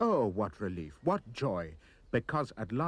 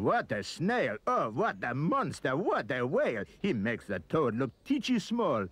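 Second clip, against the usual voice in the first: hammed-up Frenchmen gloating over a feast; mock greedy shouting; 3 semitones higher than usual. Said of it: "The French were shouting".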